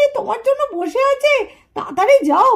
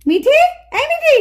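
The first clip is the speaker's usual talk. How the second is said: slow, higher drawn-out call; 4 semitones higher than usual. Acted. Mother searches the house for Mithi, slow high calling. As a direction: stretch the name out to find her.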